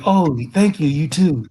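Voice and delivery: a hint of a pleased woman answering; mock girl voice. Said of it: "And she'll say".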